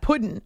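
'pudding' said as 'puddin''; Southern puddin'. Shown as a demonstration. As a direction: swallow the ending of 'pudding' into a plain n. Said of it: "I'm from the South".

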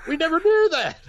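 hammed-up high astonishment; amazed. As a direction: mimic the group's wide-eyed amazement. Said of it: "They're like".

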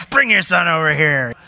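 "Bring" snapped curtly, like a put-upon teacher; mock curt Jesus. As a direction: toss off the command impatiently. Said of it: "that's kinda how it comes off at first read".

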